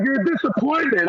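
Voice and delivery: half-volume reenacted yell; retold yell. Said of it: "I'm yelling at him".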